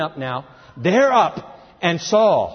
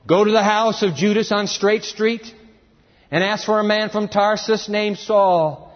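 higher, steady declaimed orders; raised, deliberate divine command; the Lord's instructions; 4 semitones higher than usual. Acted. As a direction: give clear directions from on high. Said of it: "the Lord told him".

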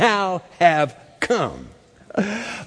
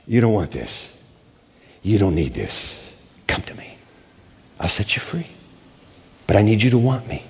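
voice of God; 8 semitones lower than usual. Retold or imitated. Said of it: "the voice of God would speak to him".

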